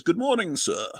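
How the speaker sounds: lightly attempted British accent; amateur attempt at British. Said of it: "Try to do a British accent".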